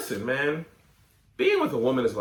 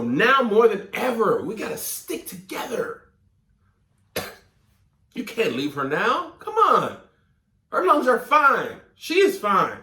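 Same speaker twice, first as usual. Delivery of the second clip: mock outrage; 4 semitones higher than usual. Mock scolding the letter writer.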